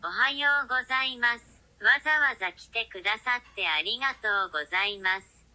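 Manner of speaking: a formal Japanese welcome; Japanese greeting. Acted. Fukushima greets the royals, polite Japanese. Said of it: "in a Japanese-English accent".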